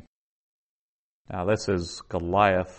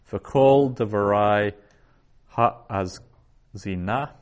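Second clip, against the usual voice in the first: slow Hebrew reading; 4 dB louder, slower than usual. Shown as a demonstration. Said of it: "Job thirty-three one".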